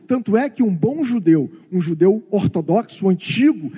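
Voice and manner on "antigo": ordinary delivery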